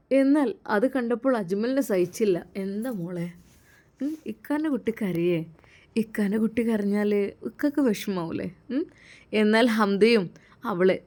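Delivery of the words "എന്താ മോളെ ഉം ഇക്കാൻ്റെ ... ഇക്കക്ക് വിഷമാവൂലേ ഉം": soft, gentle coaxing to a crying little sister; tender comforting. Acted. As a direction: hush her tears kindly, softer.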